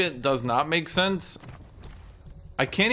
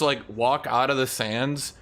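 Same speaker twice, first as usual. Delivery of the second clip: ordinary delivery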